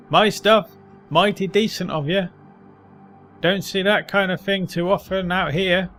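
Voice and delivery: put-on grudging thanks like a street-worn old man. Old man's grateful reply.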